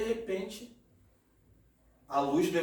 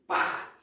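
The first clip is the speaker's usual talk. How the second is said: imitated whack. Imitates a blow in the story.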